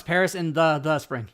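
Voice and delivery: each word separated, the doubled; reading word by word. Shown as a demonstration. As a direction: stress the extra the. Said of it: "But no".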